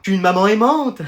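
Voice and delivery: sugary boast of motherly love; honeyed phone voice. Acted. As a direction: coo it to your friend on the phone. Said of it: "t'as une voix toute mielleuse". (voix mielleuse au téléphone)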